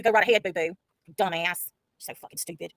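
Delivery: low, dismissive sneer at the rival; mocking sneer. Real, not acted. Streamer scoffing at a rival, low dismissive sneer. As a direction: brush her off with a low scoff.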